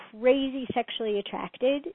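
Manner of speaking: crazy leaned on as the key word; stress on crazy. Shown as a demonstration. Host warning about attraction, leaning on crazy. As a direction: give crazy a clear push. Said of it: "emphasis on the word crazy".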